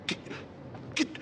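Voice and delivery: high, loud, strained imitation of a coach; Doc Rivers. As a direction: stammer it out high and forceful, mocking the coach. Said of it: "He looks at me and says".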